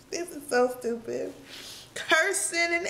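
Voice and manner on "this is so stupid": tearful little laugh-cry; half laughing through real tears; weepy exasperation at oneself; still crying. Real, not acted. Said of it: "I'm probably still crying".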